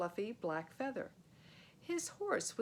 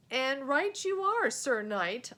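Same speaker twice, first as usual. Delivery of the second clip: loud, raised call; calling across; 5 semitones higher, 8 dB louder, slower than usual. Acted. Boy calls across the clearing to the knight. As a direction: shout across the field to the knight.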